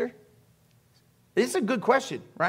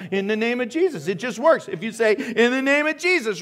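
mock incantation; 4 semitones higher, 3 dB louder than usual. Mocking a magic-phrase mantra.

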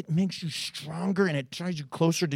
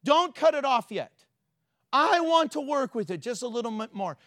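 pleading cry; 5 semitones higher than usual. Retold or imitated. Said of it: "He said".

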